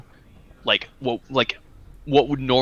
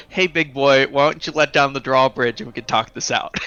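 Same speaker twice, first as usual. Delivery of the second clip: lightly sultry come-on line; seductive voice; 3 semitones higher, 4 dB louder than usual. Acted. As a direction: flirt with the guard, coaxing. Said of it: "in the most seductive voice possible".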